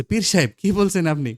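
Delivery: acted startled objection; shocked protest. A narrator's reading. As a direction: cry out in astonishment at the offer. Shocked at the pir's offer.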